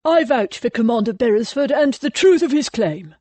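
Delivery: loud, firm call from the doorway; ringing declaration. A narrator's reading. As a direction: announce it to the whole church. Ollie announces from doorway.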